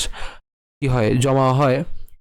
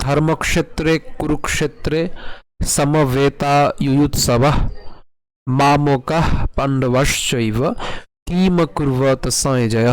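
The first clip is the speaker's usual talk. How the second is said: slow, measured Sanskrit recitation; verse recitation; much slower than usual. Shown as a demonstration. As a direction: recite the shloka with drawn-out syllables. Opens lesson by reciting the verse.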